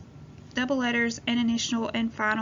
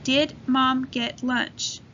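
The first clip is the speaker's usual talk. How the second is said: slow reading aloud; much slower than usual. Shown as a demonstration. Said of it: "Let's read the sentence together".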